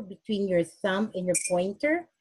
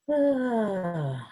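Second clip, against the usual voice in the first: exhale sound. Shown as a demonstration. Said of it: "I also made a sound".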